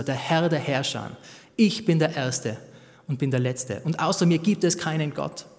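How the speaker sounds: solemn reading of God's claim; scripture reading. Acted. Preacher reads God's words on no other God solemnly. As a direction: proclaim each line firmly.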